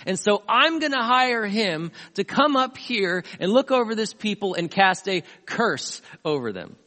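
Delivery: retold king announcing his big plan; emphatic declaration. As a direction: declare it with weighty, drawn-out emphasis. Voices nervous king hiring prophet.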